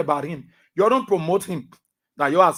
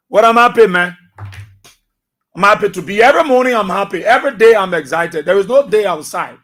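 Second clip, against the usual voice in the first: excited; 2 semitones higher, 5 dB louder than usual. Real, not acted. Host tells his listeners how happy he is, excitedly. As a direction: shout out how happy you are. Proclaims his happiness on radio.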